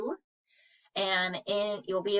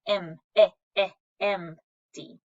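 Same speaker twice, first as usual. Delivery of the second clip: slow syllable split, eh stretched; sounded out; 4 dB louder than usual. Shown as a demonstration. Teacher sounding out eh for students, slow and drawn out. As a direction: stretch the eh sound, then say empty. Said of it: "So that is a short E sound".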